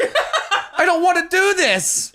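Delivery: high slow laughing plea; drawn out with a laugh. Retold or imitated. Laughing about having to fight before the show. Laughing at his own threat.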